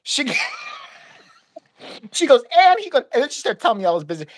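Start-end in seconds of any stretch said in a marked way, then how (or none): 2.6-3.0 imitated outburst, high and loud; mock indignant rant. Clerk telling all his business, mock indignant outburst. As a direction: launch into her complaint, pitched way up.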